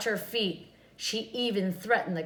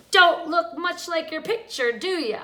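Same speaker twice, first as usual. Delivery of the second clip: mocking witch; 7 semitones higher, 8 dB louder than usual. A narrator's reading. Witch mocks farmer.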